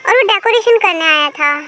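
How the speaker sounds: a lightly voiced flustered bride; flustered wife. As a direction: protest in surprise that he's being silly. Tae answers jealous husband.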